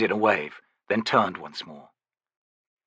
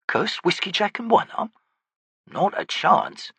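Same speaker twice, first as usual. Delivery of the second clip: growling soldier; 10 semitones higher than usual. Acted. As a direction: complain like a sore grunt.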